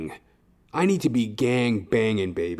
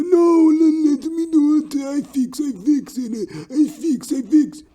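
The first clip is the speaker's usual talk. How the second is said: much higher, louder put-on worker; insistent worker voice; 8 dB louder, slower than usual. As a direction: play the stubborn worker insisting he'll fix it. Voicing Marius insisting.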